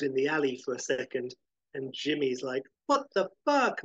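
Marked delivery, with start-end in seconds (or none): 2.9-3.8 high-pitched, incredulous exclamation; shocked outburst. A narrator's reading. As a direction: blurt it out high, in disbelief. Dazed outburst after window fall.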